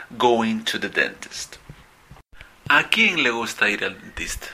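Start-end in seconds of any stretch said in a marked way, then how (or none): 2.7-4.5 whisper. Acted. Teacher whispers rhetorical question.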